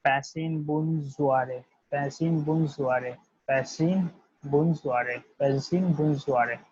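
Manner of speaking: Pasin Bun Zuare said very slowly, syllable by syllable; slow French drill. Shown as a demonstration. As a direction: drawl out Pasin Bun Zuare for students to copy. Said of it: "this word will be pronunciated as".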